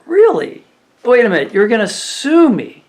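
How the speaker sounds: high, disbelieving mock outrage; incredulous. Host mocks customer threatening to sue, high incredulous voice. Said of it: "I said".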